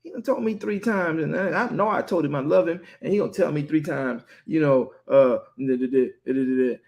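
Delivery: mutter-complain about being asked; grumbling. Retold or imitated. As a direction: Peter griping to himself, mock annoyance. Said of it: "he became contentious".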